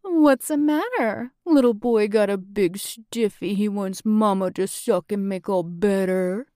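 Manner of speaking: mocking baby-talk singsong; sing-song teasing. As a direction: tease him like a child. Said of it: "In a sing-song voice".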